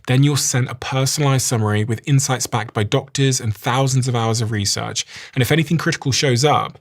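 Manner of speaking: upbeat, polished podcast ad read; sponsor ad read. Acted. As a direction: sell it like a host ad spot. Host reads sponsor ad.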